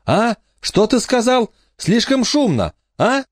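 put-on high girl's voice, insistent yell; shouting over wind. A narrator's reading. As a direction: keep yelling the question over the noise. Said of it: "настойчиво твердила".

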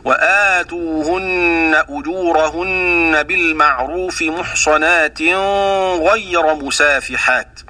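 slow recitation with the ن of محصنات hidden and nasalised into the غ of غير; Abu Jafar nasal hiding. Shown as a demonstration. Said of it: "هكذا".

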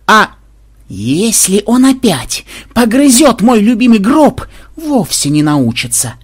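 slow, high, loud outraged howl; wailing yell. A narrator's reading. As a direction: bellow a drawn-out threat from afar. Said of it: "раздался откуда-то вопль Ксенобайта". (протяжный возмущённый вопль)

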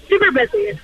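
ordinary talk

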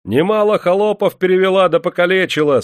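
very high, loud accusing cries; crowd shouting. A narrator's reading. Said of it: "снова закричали в толпе". (обвиняющие крики из толпы)

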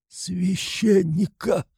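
медленный, высокий слабый зов; тяни слово из последних сил; умирающий. A narrator's reading. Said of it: "проговорил опять умирающий". (умирающий опять зовёт священника, медленно)

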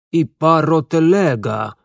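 slow, loud alarmed cry; alarmed shout. Acted. Realizes telega gone.

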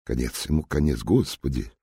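ordinary delivery

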